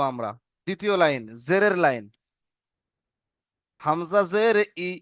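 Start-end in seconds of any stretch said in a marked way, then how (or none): 3.8-4.9 slow spelling drill. Shown as a demonstration. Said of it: "বলেন আমার সাথে সাথে".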